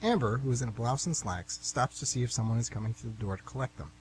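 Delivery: even, measured reading of stage directions; story narration. A narrator's reading. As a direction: set the scene for the listeners. Stage directions read aloud.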